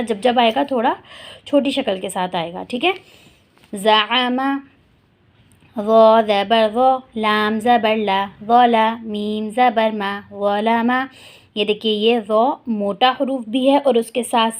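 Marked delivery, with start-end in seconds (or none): 3.7-11.1 slow, deliberate letter-by-letter recitation; slow spelling drill. Shown as a demonstration. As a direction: drill each syllable slowly for the class. (آہستہ ہجے کی مشق)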